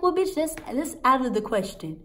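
high, loud indignant retort; snapping. Retold or imitated. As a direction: snap back in outrage. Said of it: "Now I'm snapping".

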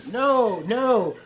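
put-on high, loud child's cry of no; yelling. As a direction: shout it out to stop them. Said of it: "It was the voice of Ai yelling".

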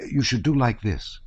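high, lilting friendly instruction; homely, encouraging lilt; kindly peasant soldier. Acted. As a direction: show him how, in a helpful sing-song. Soldier kindly showing Pierre how.

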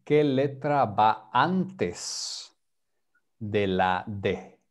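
qué letra va antes de la D asked slowly; slow clear question. Shown as a demonstration. Teacher asking a student slowly and clearly. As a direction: spell out the question for a learner. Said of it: "slow question to student".

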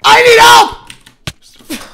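very high, loud and very slow plea; drawn-out wail. Real, not acted. Streamer wails to chat for help with intruders, drawn out and high. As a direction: stretch it into a helpless wail.

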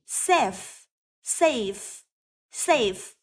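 Safe starting on a clear hissed s; careful model Safe with a voiceless initial s; voiceless s sound. Shown as a demonstration. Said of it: "Vậy cũng được phát âm là s". (phát âm Safe với âm s ở đầu)

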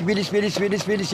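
evenly repeated lilting chirp; bird song opening. Shown as a demonstration. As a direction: imitate a finch warming into song. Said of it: "Bir iki ön yapıyor". (kuş ötüşü taklidi)

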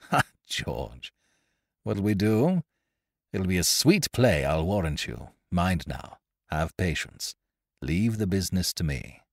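lightly voiced reckless adventurer, gleeful; rakish pirate Ned. Ned explains the plot to George, gleefully. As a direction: relish the scheme like a daring rogue.

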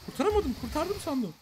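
high, loud cry of dismay; alarmed dismay. Real, not acted. Player thought he had saved it, alarmed dismay. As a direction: wail it in alarm.

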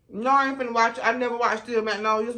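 mock refusal. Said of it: "when she told me she was crying".

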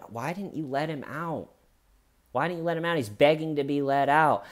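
pleading-pitched mock questioning; detectives pressing questions.

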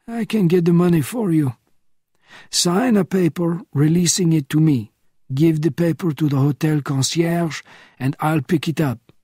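a hint of a weary old spy at four in the morning; old man roused from sleep, a touch testy; elderly Bernardin, woken. Bernardin offering help.

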